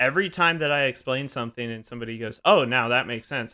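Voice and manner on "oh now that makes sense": plain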